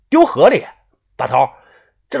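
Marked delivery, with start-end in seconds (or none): 0.1-0.6 high, loud disbelieving echo; shocked question. Acted. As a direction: repeat it in disbelief. Shocked at the order.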